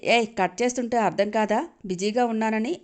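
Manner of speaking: lightly voiced angry yell down the phone. Jai yelling at pestering Mona on the phone, mild angry yell. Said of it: "అంటూ అరిచి".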